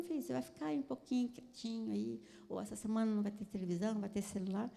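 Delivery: softly spoken, even-voiced discipline; calm parent. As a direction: tell a child the consequence quietly and calmly. (pai falando calmamente, baixinho)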